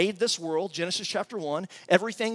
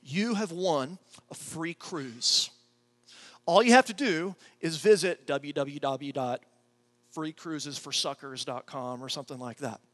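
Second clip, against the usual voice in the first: reading the scam letter. Retold or imitated. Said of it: "the letter read something like this".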